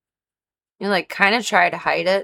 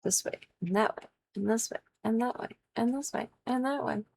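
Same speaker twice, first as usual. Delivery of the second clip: singsong; 6 semitones higher, 5 dB quieter than usual. Real, not acted. Rising singsong list.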